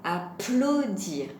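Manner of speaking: applaudir slowly, A, PLAU, DIR in separate beats; split into syllables. Shown as a demonstration. Teacher repeats the word for children, applaudir slowly divided. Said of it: "c'est moins facile à entendre".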